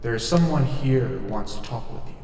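lightly voiced old Scottish ghost; a hint of a sly Scottish spirit; ghostly Scottish spirit. Ghost Danny replies.

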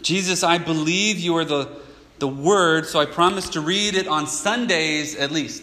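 a touch of over-earnest promising; mock earnest vow. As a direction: play a believer pledging eagerly to Jesus.

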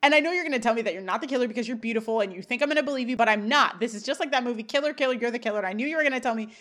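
imitating a frantic, rushing tirade; mock screamed accusation. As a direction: rattle out the accusation without a breath. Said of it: "he starts screaming that she's the killer".

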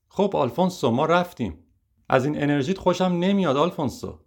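shouting. Acted. Producer calling out to Alfonso, mild mock shout. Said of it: "تهیه کننده داد زد".

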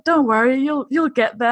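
lightly imitated reassuring pep talk, pitch slightly lifted; Oprah inspirational. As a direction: encourage like a motivational host, lightly mocked. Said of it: "Oprah inspirational".

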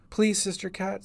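put-on high child's plea; pleading little girl. A narrator's reading. Hurt girl begs the sister for help, pleading. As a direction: beg in a small, high voice.

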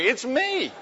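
high comic squeal of self-identification; hammed-up desperate plea; panicked pleading. Husband pleads as wife attacks him.

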